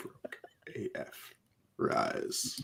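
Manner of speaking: whispered, evil, dark emperor voice. Reading a toy figure listing aloud, the speaker does a Palpatine voice. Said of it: "I heard it in Palpatine's".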